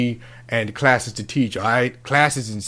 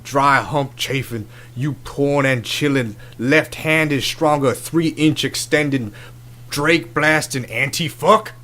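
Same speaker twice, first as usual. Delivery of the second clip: slow, deliberate insults climbing higher; insulting tirade; 3 semitones higher, slower than usual. Acted. Host tearing into the co-host who interrupted, insulting tirade. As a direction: spit out each insult slowly, building in pitch.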